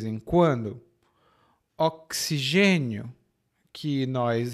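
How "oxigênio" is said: "Oxigênio" measured, X said as ks; "Oxigênio" as a teaching word, with a clear ks; ks sound. Shown as a demonstration. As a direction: model "Oxigênio" as ok-si-gênio. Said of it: "é o som de X".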